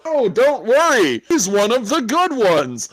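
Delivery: megaphone announcement. Retold or imitated. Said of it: "grab the megaphone and go".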